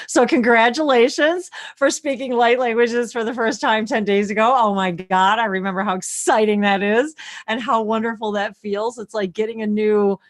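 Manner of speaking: excited, animated celebration; excited congratulations. Real, not acted. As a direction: gush with delight at their news. Congratulating a newcomer, delighted for them.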